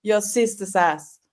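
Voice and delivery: slow, drawn-out mock rant; lightly imitated ranting catchphrase. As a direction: mimic his catchphrase slowly. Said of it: "the way he says it when he's ranting".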